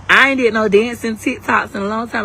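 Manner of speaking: ordinary talk, nothing marked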